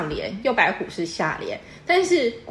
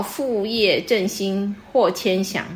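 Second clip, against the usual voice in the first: reads each syllable slowly and evenly, like reciting verse; slow couplet recitation; slower than usual. Shown as a demonstration. Teacher reciting a couplet example to the student, slow and measured. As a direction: savour the couplet one word at a time. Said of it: "然后".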